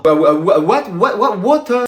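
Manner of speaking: halting, repeated false starts; fumbling stammer. Acted. Pupil trying English on Spanish newcomer, fumbling stammer. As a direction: stammer out the only foreign word.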